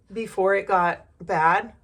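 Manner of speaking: a burp catching in the words. Real, not acted. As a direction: talk through a rising burp. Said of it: "I keep burping".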